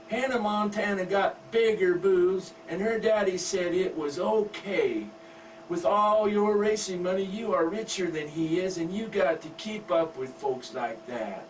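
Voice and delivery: put-on high, coy teen girl voice; giggly daughter. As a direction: wheedle Daddy sweetly. Daughter argues with father.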